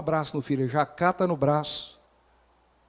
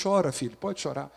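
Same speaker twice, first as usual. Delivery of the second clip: consolo ao filho; 3 dB quieter than usual. Retold or imitated.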